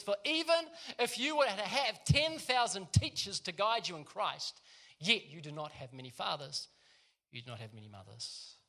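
preacher reading the verse to the church; scripture reading. Acted. Reads scripture aloud.

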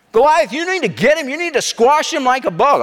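high, swooping, worked-up urging; hammed-up crowd agitation, pitched high; egging him on. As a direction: goad the champion into a fight. Acted egging on of Goliath.

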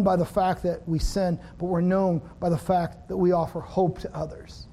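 pastor's gentle closing prayer. Acted. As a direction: pray sincerely over the room.

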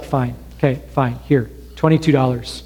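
exhausted dad quietly giving in to his son; weary giving in. Retold or imitated.

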